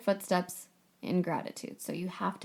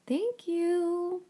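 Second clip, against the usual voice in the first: magic words; 9 semitones higher than usual. Shown as a demonstration.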